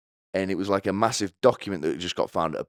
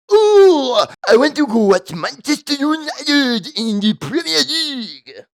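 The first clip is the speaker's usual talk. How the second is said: higher, louder hammed-up stereotyped Chinese accent; mock Chinese official; 8 semitones higher, 7 dB louder than usual. Chinese officials questioning the silly spy, hammed-up mock Chinese accent. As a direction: play a Chinese interrogator in a crude put-on Chinese accent, spiking on the last oh. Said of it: "the Chinese are like".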